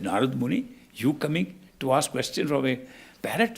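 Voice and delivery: amazed that a great sage wants his parrot; surprised host. Acted. Host amazed the sage came to ask his parrot, incredulous rise.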